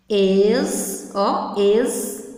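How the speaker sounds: "es-co-la" with long gaps between syllables; split into syllables. Shown as a demonstration. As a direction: sound out "es-co-la" beat by beat. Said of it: "quantas vezes nós vamos abrir a boca".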